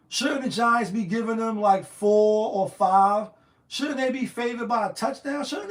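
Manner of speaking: indignant at the spread, stretching out "four or five"; incredulous. Real, not acted. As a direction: drag out "four or five" in loud disbelief. Outraged at the spread.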